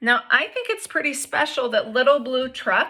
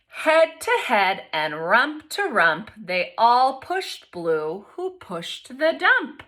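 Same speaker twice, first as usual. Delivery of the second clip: expressive picture-book read-aloud; reading to children; slower than usual. A narrator's reading. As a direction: read it to the class with lively voices.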